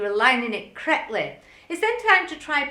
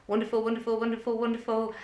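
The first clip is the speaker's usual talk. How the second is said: Wonderful, wonderful rolled off quickly in even triplets; quick rhythmic counting; quicker counting; 3 dB quieter, much faster than usual. Shown as a demonstration. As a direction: rattle off wonderful at a quick tempo. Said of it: "rolls off the tongue well, even at quicker tempos".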